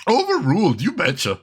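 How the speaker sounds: put-on playful Minnesota accent on a ruling. Judge overruling in court, playful Minnesota accent. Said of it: "If I could maintain the Minnesota accent".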